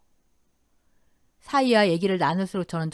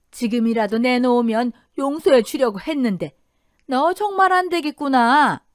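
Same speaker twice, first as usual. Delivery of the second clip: menacing warning; 3 dB louder than usual. Acted. Mother-in-law threatens over money.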